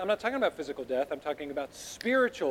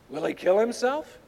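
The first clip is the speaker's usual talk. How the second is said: mock question with a sarcastic lift; 4 semitones higher than usual. Shown as a demonstration. Preacher reading the Jews' retort to Jesus, sarcastic. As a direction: read it as a sneering question. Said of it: "I want you to read this sarcastically".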